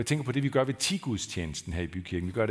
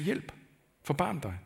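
beggar's cry for help; 6 semitones higher than usual. Acted. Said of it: "Og han sagde".

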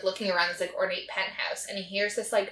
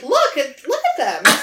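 higher, louder, through laughter; laughing mock insistence; 7 semitones higher, 10 dB louder than usual. Man showing off his duffel bag contents, retold through laughter. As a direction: act out the quote while cracking up. Retelling absurd scene while laughing.

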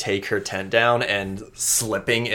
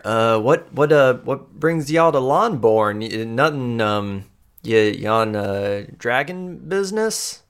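nervous Amoya; 3 semitones higher than usual. Acted. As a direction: stammer out that she's fine, pitched up. Amoya making awkward small talk.

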